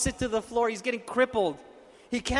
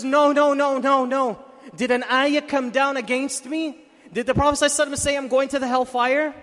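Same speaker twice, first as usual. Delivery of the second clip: louder, higher, frantic denial and questioning; alarmed protest; 4 semitones higher, 4 dB louder than usual. Retold or imitated. Frightened boy protests to Umar, alarmed and raised. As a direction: plead in alarm, pitched up and loud. Acted panicked protest of sinner.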